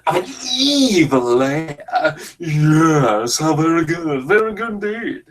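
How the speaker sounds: lightly voiced evil mastermind purring approval; mock villain. Commentator voicing the movie villain, a lightly hammed gloat.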